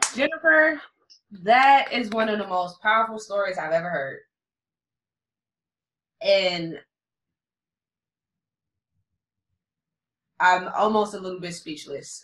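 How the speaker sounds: on the verge of tears, holding them back. Responding to the powerful story just told, fighting back tears. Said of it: "I'm really almost fighting back tears".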